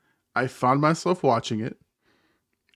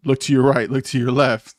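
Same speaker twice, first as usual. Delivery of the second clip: mildly raised callout voice; imitating teammates yelling; 6 dB louder than usual. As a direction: bark out orders like teammates, half-strength. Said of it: "everyone's yelling".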